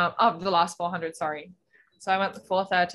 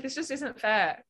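slow, higher-pitched mock grumble; mock complaint; 6 semitones higher, slower than usual. Distance swimmer protesting the unequal set, mock complaint. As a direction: drag it out as a playful protest.

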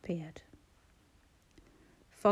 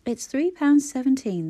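higher, louder, sulky reply; sulky pout; 5 semitones higher, 7 dB louder than usual. A narrator's reading. Sulky checkout girl answers Clara, louder and higher. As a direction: pout the price back at her. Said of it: "the girl pouted".

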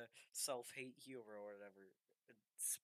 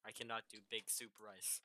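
lightly mocking Russian accent; mimicking with a Russian tinge; 3 semitones lower than usual. Teasing the co-host's refusal, mock Russian accent. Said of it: "Do it in a Russian accent".

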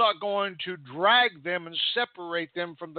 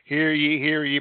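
royal herald; 4 dB louder than usual. Retold or imitated. Herald's call, olden days.

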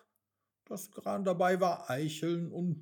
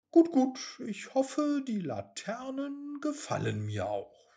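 higher, snippy dismissal; 9 semitones higher than usual. Acted. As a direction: brush him off, pert and spoiled. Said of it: "sagte Mimi schnippig". (schnippisch und hochnäsig)

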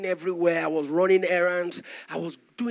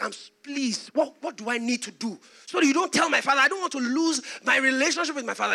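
stammered, higher-pitched pleading; anxious pleading; 5 semitones higher than usual. Retold or imitated. Son begging the servant not to tell, anxiously pleading. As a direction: beg him, a touch panicked.

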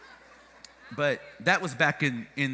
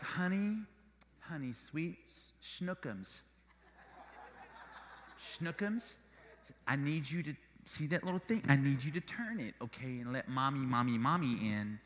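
put-on soft, sugary mom voice coaxing a toddler; sweet coaxing; 4 semitones lower, 7 dB quieter than usual. Mom coaxing her locked-in toddler, soft and sweet. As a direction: coax gently like a mom at the glass.

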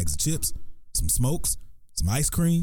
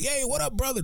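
hobo greeting; 14 semitones higher, 4 dB quieter than usual. Retold or imitated. Voicing the one-eyed hobo.

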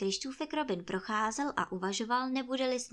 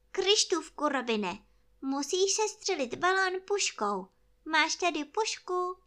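higher bear voice; urgent toy bear; 7 semitones higher, 4 dB louder than usual. Acted. Bear asks friend to shoot the balloon, high earnest voice. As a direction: instruct a friend earnestly, pitched up. Pooh pleads for rescue.

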